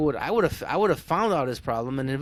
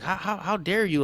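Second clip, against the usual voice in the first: higher-pitched, stammering outrage; mock indignation; 6 semitones higher than usual. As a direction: imitate an offended customer sputtering. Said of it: "he was just pissed".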